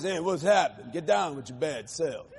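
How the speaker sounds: laid-back seventies hippie slang, laughing through it; lightly voiced long-haired freak, chuckling; a hint of a cool dude greeting, with a laugh; hippie freak talk. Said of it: "Talk like this".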